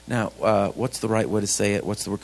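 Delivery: low, soft inner monologue; hushed, hesitant searching for words; thinking to himself. Retold or imitated. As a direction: puzzle it out under your voice. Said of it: "'cause I'm thinking".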